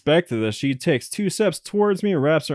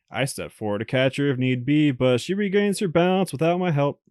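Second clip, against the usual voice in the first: even visual-novel reading voice; story narration; 2 semitones higher than usual. Acted. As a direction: narrate the game text steadily. Reads game narration.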